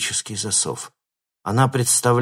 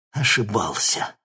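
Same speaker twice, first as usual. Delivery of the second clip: ordinary delivery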